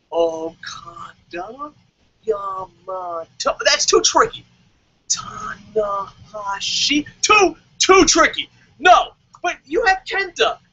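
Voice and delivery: struggling to read Japanese names; dumb American fan. Retold or imitated. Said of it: "they're like".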